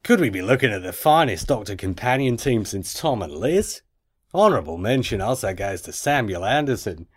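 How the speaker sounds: effortful, badly faked Aussie accent; Australian accent. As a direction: read the email in mock Australian. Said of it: "I can't do it".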